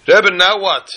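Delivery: high, loud eager plea; a woman pressing the Rebbe, loud and eager; eager question. Acted. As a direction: ask it keen and breathless for the next task. Woman eager for next step.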